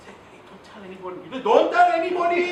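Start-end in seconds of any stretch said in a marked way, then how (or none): 0.3-1.2 hushed, confidential warning; secretive whisper. Shown as a demonstration. Confiding a secret to someone, hushed whisper. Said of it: "if you whisper something to someone". 1.4-2.4 high, blaring mock warning; loud shout. Shown as a demonstration. Trainer spoiling a secret for laughs, loud shout. Contrast take to the whisper.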